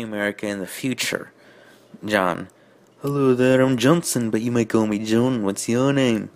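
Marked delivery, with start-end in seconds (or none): 2.0-6.3 put-on Liverpool accent. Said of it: "that was Liverpool, wasn't it".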